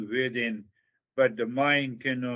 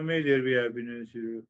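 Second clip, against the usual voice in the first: quick, offhand recitation; casual; much faster than usual. Shown as a demonstration. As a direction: rush it as a throwaway line. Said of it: "So, so casually you say".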